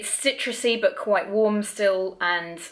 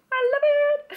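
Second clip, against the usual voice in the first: laughing; 6 dB louder, much faster than usual. Real, not acted. Laughs after whispered gush.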